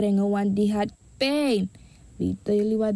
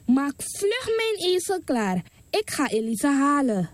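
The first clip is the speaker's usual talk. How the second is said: urgent mother's voice; 5 semitones higher than usual. Acted. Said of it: "riep ze de knecht en zei".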